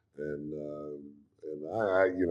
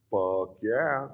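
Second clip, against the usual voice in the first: eager yes; 5 semitones higher, 4 dB louder than usual. Retold or imitated. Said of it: "And I said".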